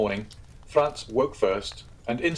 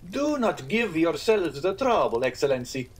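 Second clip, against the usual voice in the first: higher, placating innkeeper; 7 semitones higher than usual. Acted. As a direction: give in smoothly. Pastrini concedes.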